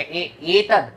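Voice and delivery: deliberate teaching chant for worshippers; mantra recitation. Shown as a demonstration. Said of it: "अर्पण करते समय आपको बोलना है".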